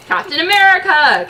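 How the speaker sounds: loud slow proud shout; loud triumphant shout. Acted. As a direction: bellow your own name. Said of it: "Captain America shouted".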